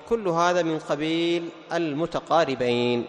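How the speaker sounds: "كل" hit hard, and the whole line said very slowly; stress on كل. Shown as a demonstration. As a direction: lean on "كل" and drag out the rest. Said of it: "teacher stresses the conclusion".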